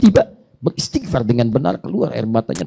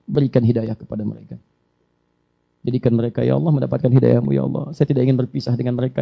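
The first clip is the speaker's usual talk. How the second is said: quiet, humble prayer; soft pleading prayer. Shown as a demonstration. Preacher modelling a quiet prayer for guidance. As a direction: pray gently and sincerely.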